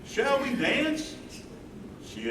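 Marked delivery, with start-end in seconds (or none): 0.1-1.2 high, slow and tender; higher, unhurried courtly ask; gentle invitation. Acted. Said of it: "walk over to Jeannie and ask".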